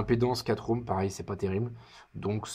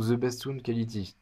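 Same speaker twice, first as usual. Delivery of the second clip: French accent in English; 2 semitones higher than usual. Real, not acted. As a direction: sound out the English words carefully, French accent. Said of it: "vous m'excuserez pour mon accent".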